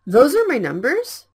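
"Those are my numbers?" said loud, rising at the end; loud question rise. Shown as a demonstration. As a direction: call it out as a question for students to repeat. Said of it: "repeat after me in a loud voice".

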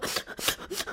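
quiet, breathy mock sobs; imitated sobbing. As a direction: mimic someone sobbing in short soft bursts. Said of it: "이러면서 막 울으면". (흑흑 우는 소리 흉내)

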